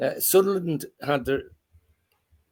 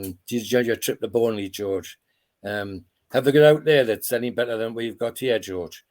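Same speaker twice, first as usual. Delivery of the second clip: put-on Northumberland accent. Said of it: "I kinda do his, his Northumberland accent".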